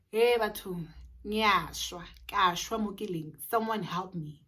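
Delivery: loud urgent call for help. Retold or imitated. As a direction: call out to the nurses across the ward. Calling out for a nurse.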